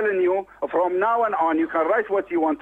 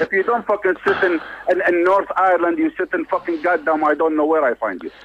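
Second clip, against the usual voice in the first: real anger, louder and pushing hard; furious threat; 4 dB louder than usual. Real, not acted. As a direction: threaten him down the phone, raging. Phone threat, furious caller.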